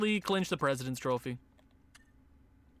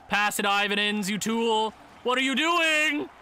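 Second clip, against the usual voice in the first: frustrated yell; 4 semitones higher, 4 dB louder than usual. Real, not acted. Yelling at his players in game.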